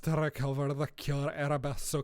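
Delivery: hammed-up Scottish-tinged accent; slightly overdone Scottish accent; a bit Scottish. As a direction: scold in a put-on Scottish lilt. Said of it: "I turned a wee bit Scottish there".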